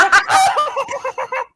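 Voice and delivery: high, loud burst of laughter; high helpless cackling behind a hand; laughing through a hand. Pretend. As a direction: cackle as if a hand covers your mouth. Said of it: "hand still over my mouth".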